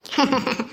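low, falling laugh; dry chuckle. Acted. Scornful aside about the mother.

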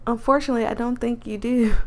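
lightly voiced country accent; a touch of country twang. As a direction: put on a mild country accent. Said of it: "I'm messing up her accent".

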